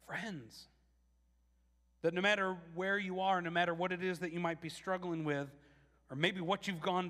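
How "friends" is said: much softer, almost breathed; soft repeat. Real, not acted. Preacher echoing Jesus to the congregation, hushed. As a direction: let the word land gently.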